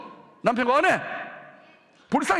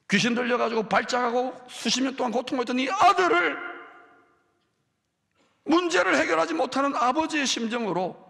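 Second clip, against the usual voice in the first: loud, higher, impassioned sermon delivery; fervent preaching; 6 semitones higher, 4 dB louder than usual. Acted. Pastor exhorts the congregation about real faith, fervent preaching. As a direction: drive it home to the congregation with fire.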